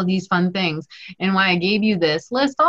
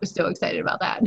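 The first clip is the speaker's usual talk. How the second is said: mock student voice; 7 dB quieter, much faster than usual.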